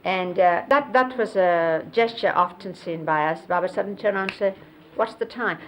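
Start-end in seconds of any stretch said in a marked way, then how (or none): 4.9-5.6 abrupt, stiff question; stiff delivery. Shown as a demonstration. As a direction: ask it stiffly, not flowing. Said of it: "But then it wouldn't be like this".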